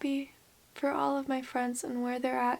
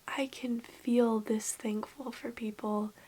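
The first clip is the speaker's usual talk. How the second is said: whisper; 2 semitones lower, 5 dB quieter, slower than usual. Real, not acted. Emotional confession, whispered.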